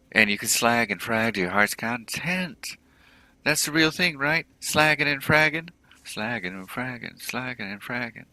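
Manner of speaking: high-pitched, hyped-up sales patter; twitchy orc dealer, eager. Acted. Orc clocker sells thrill chips to customers, twitchy and eager. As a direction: pitch it high and swooping, relishing the goods.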